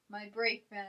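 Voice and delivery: ordinary talk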